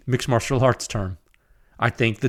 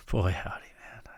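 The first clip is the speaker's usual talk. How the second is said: low, hushed amazement; fading, breathy marvel; awed whisper; 5 semitones lower, 10 dB quieter than usual. Real, not acted. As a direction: whisper it to yourself in wonder. Marvelling at his new rifle.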